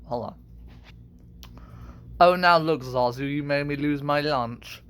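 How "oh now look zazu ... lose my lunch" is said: lightly voiced British villain; a hint of a haughty lion villain; Scar. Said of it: "I can kinda do Scar".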